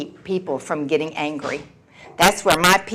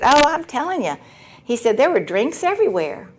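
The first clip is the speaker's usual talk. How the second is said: mock excited husband; 7 semitones higher than usual. Husband raving about happy hour.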